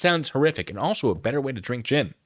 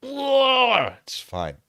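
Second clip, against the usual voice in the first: very high, drawn-out squeak; comically high-pitched voice; mock squeal; 13 semitones higher than usual. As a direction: squeal it in pretend cheer. Joking that everything is fine.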